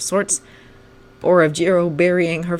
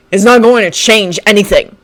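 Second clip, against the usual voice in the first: scoffing; 5 semitones higher, 8 dB louder than usual. Acted. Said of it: "scoffed Bakugo".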